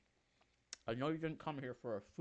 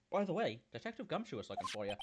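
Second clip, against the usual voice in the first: redone character line; 3 semitones higher than usual. Acted. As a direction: snap back into character on the retake.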